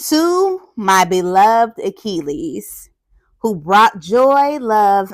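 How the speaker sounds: slow, measured read-aloud; dedication read-aloud. Acted. Teacher reads author's dedication to children, slow storybook delivery. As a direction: read it out slowly, phrase by phrase.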